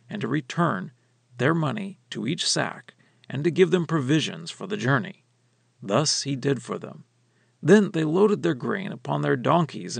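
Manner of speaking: measured, earnest Bible reading voice; scripture reading. Acted. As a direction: read the passage aloud like a lesson text. Scripture reading before commentary.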